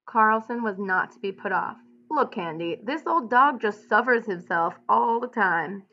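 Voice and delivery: steady read-aloud narration with lightly voiced ranch hands; story narration. A narrator's reading. Teacher reading the novel aloud to students. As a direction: read the bunkhouse scene to the class.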